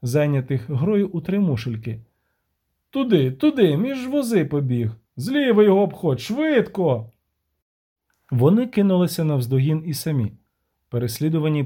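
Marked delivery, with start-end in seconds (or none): 2.9-7.1 urgent shouting. Acted. Denti directing the chase.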